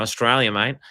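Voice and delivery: put-on a light, jokey Australian accent. Showing off his Australian accent to co-host, light mock Aussie. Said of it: "love my accent".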